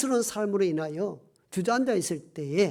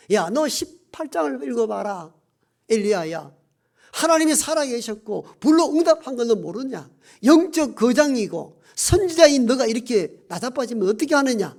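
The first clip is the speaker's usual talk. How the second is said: rebuke; 3 semitones higher, 3 dB louder than usual. Retold or imitated. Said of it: "책망할 법한데".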